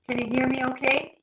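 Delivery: glitchy robotic voice; choppy digital connection voice. Real, not acted. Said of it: "it sounds like you're".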